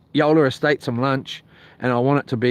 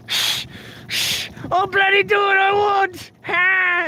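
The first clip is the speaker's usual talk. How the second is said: much higher, rowdy yelling mimic; neighbour talking like me; slower than usual. Mimicking the liquored-up neighbour, high rowdy shout. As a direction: ham up the drunk neighbour. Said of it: "he was kinda talking like I do".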